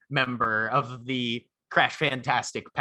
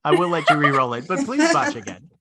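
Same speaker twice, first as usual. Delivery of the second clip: laughing; 5 dB louder than usual. Real, not acted. GM laughing, begs another botch.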